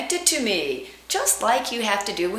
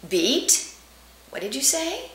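pause, then a pitched-up "what did you say?"; little beat; 4 semitones higher, 3 dB quieter, slower than usual. Shown as a demonstration. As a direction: take a beat before the line. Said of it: "you're going to take a little beat".

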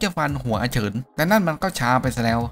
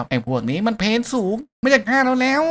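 put-on kid's warning shout; 10 semitones higher than usual. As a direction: shout it across the room as a kid. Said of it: "ตะโกนบอกว่า".

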